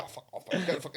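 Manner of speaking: breathless, half-voiced curses between gasps; out of breath. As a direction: gasp the swears out, spent. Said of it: "they were both out of breath".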